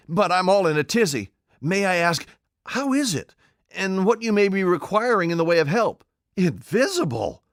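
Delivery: high, loud, all-in-a-tizzy tramp; the tramp flapping in confusion; flustered tramp. A narrator's reading. Tramp Marvel asks the invisible man, flustered and high.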